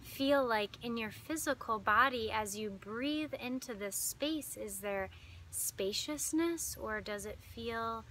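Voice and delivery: calm meditation guide with long pauses; unhurried, lingering phrases, leading listeners inward; guided meditation. Acted.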